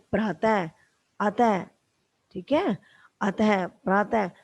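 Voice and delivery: प्रातः and अतः ending on a breathy ह sound; visarga examples. Shown as a demonstration. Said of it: "है की ध्वनि आती". (विसर्ग की ह ध्वनि के साथ उच्चारण)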